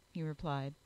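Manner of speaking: ordinary delivery, nothing marked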